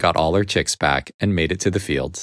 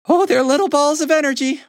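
big hen voice. Acted. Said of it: "one of the big hens laughed".

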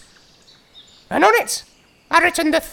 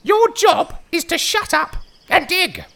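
haughty. Acted. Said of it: "said in a haughty voice".

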